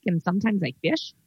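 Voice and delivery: folksy Wisconsin character voice; playful upper Midwest local; upper Midwest accent. Acted. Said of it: "a little upper Midwest".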